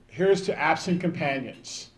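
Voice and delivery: slow, solemn toast to absent friends. Shown as a demonstration. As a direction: raise a glass, measured and earnest. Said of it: "There's a military phrase".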